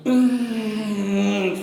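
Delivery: real effort grunt; strained grunt. Real, not acted. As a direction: grind out the last rep with a groan. Last hard rep of set.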